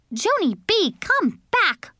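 put-on high-pitched call after a runaway child. A narrator's reading. Mother calling her runaway child back, high urgent call. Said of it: "called Mother".

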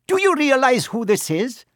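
high-pitched, insistent centaur; defiant centaur. Acted. Centaur defending the boy to his accuser, defiant. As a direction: answer back in a high, urgent voice.

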